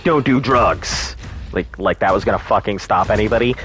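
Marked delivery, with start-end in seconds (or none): 0.0-1.1 slow, drawn-out public-service "Don't do drugs"; mock PSA announcer, very slow; old PSA voice. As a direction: read it like an eighties arcade warning. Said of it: "and they'd be like".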